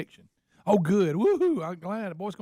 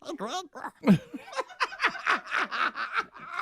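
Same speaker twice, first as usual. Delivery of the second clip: groundhog; 9 semitones higher than usual. Pretend. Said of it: "let's hear it".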